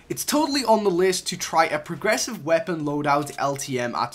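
flat robotic reading. Shown as a demonstration. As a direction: read it like a robot. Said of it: "I'm sorry I read that like a robot".

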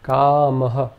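kamah with a short breathy ah at the end; kamah, breath pushed out after the a; visarga example. Shown as a demonstration. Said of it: "Some examples to illustrate this".

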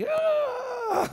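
high, held falsetto cry; preacher mock-offended, high squeal; mock indignant cry. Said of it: "indignant exclamation".

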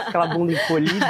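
laughing. Real, not acted. Laughing while teasing student.

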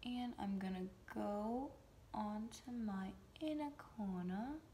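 soft whispered mock British accent; put-on British accent. Vlogger slips into a whispered British accent while applying shadow. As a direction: murmur it in a playful British accent. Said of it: "Stop talking in a British accent".

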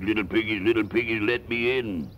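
a lightly voiced wolf calling at the door; wolf calling to the piggies to let him in.

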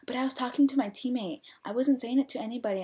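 retold indignant self-defence; defensive protest. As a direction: imitate a girl pleading innocence. Imitating girl defending herself.

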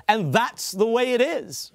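slow, lightly imitated anchorman sign-off; a hint of famous broadcaster; Walter Cronkite. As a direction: deliver a newsman's catchphrase, slowly. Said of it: "he was the guy who said".

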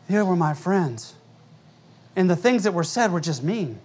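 quietly imitating his crying member; a touch of mock weeping. Pastor mimics a tearful congregant, softly whimpering. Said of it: "he's like".

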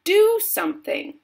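very high, loud outburst; shrieking frantic wife; screamed demand. A narrator's reading. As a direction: scream at your husband to act. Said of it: "Missus Gloop screamed at Mister Gloop".

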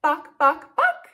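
three short clucks; chicken clucks. Shown as a demonstration. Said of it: "A chicken says".

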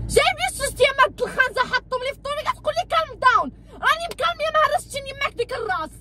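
fast angry tirade in Arabic; rapid furious rant. Acted. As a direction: rattle off the insults fast. Wife rants in Darija.

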